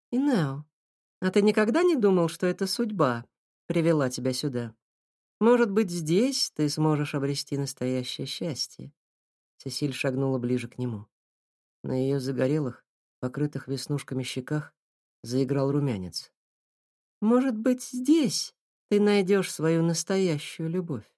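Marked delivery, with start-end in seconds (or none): 0.1-8.9 put-on young girl voice. Girl voiced higher by reader. 17.2-21.1 put-on young girl voice. Girl voiced, slow and higher.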